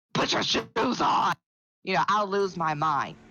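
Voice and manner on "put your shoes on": rough mock shouting. Retelling how she yells at her children: imitating her own yell like Batman. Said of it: "I'm yelling like Batman".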